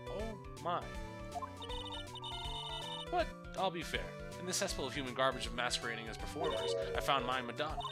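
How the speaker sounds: high, sneering puppet rant; bratty dummy trash-talking; cocky puppet voice. Acted. Puppet rants about circus.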